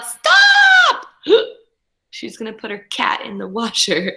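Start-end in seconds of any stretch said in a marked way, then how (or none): 0.0-1.1 high, loud shouted stop; parents yell. Acted. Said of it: "her parents yelled". 1.2-1.5 gasp. Acted. Reader gasps at story.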